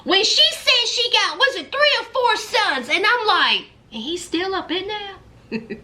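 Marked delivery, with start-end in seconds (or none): 3.9-5.8 laughing disbelief. Retold or imitated. Retold disbelief at caller.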